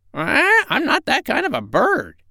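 very high squawky parrot; a proud, cheeky parrot. Acted. The parrot speaks.

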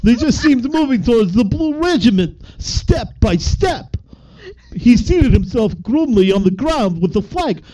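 a hammed-up Jamaican accent that drifts, reading high; bad Jamaican accent. Friend asked for a Jamaican accent, reading a war novel in a bad Jamaican accent. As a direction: read it in a clumsy mock Jamaican accent. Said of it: "I wanna hear a Jamaican accent".

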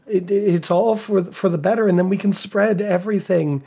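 lightly voiced persuasive villain; pleading villain.

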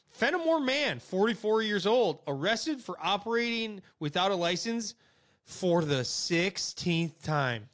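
punchy headline read, slowing on the last phrase; news headline read. Acted. Host reads the next strange news story, deliberate headline delivery. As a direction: read it out like a tabloid headline, drawn out at the end.

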